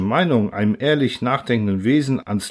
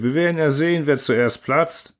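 taunt; 4 semitones higher than usual. Acted. Mob taunts.

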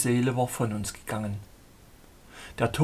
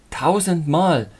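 passionate cry; 3 semitones higher, 5 dB louder, slower than usual. Acted. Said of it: "rief ich leidenschaftlich".

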